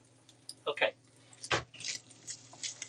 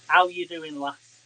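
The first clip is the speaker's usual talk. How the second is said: louder broad Yorkshire hello; Yorkshire slang greeting; 6 dB louder, slower than usual. Pretend. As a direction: call it out Yorkshire style. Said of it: "we're gonna talk in Yorkshire slang".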